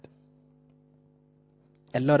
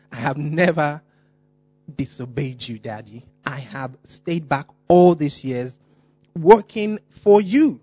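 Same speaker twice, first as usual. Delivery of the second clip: louder, rising, indignant son pleading with his father; aggrieved protest; 5 dB louder than usual. Acted. Older son protesting to his father, loud and aggrieved. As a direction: rant at Daddy like a wronged son. Preacher voicing older son's complaint.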